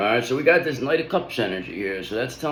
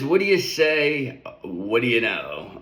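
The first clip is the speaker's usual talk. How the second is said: voicing the cat; slower than usual. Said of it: "The cat says".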